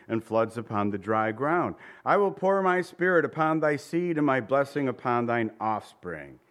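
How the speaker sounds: scripture prayer. Acted. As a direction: read it as the priests' solemn prayer. Priests' prayer read from Isaiah.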